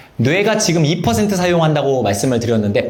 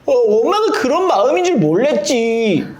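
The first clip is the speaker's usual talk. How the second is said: high-pitched, hammed-up whine; mock clueless child; 8 semitones higher than usual. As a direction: play a dim child wailing in excuse. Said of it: "근데 멍청할수록". (철없는 아이가 징징대는 흉내)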